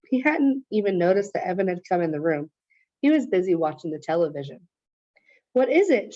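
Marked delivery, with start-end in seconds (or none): 5.5-6.1 mild shout. Acted. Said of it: "shouted Missus Tresky".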